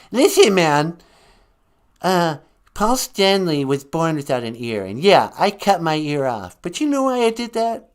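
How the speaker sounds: hammed-up grumpy artist; mock angry Van Gogh. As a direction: fume at the host as a peeved painter.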